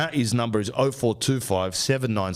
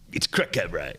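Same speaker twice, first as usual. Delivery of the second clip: mocking the word; 3 semitones lower than usual. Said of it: "Worst word".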